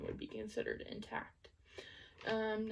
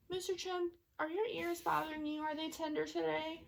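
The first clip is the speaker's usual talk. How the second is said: higher, gentle bedside voice to a little patient; talking to a child; 6 semitones higher than usual. Acted. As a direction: coax him like a young child. Nurse talking to a toy patient.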